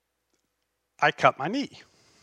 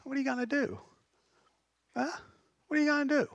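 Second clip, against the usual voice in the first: incredulous challenge; 8 semitones higher, 9 dB quieter, much faster than usual. Retold or imitated. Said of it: "a statement of incredulity".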